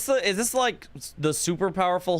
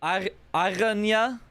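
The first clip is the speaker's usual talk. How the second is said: French accent; 3 semitones higher, slower than usual. Shown as a demonstration. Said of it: "how would I say it in a French accent".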